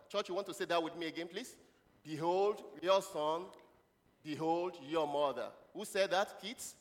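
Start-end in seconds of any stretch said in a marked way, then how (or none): 2.0-5.5 slow, drawn-out phrases; scripture recitation. Acted. Preacher leads the church in Jesus' words, slow recitation. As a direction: recite deliberately so a group can follow.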